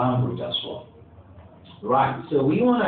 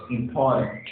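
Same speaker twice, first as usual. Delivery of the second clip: "important" stressed on POR, im-POR-tant; second-syllable stress. Shown as a demonstration. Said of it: "and the second syllable".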